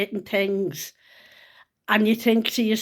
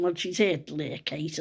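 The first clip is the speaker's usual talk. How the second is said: quiet inner thought; 4 semitones lower, 5 dB quieter than usual. Retold or imitated. Inner thought, much softer.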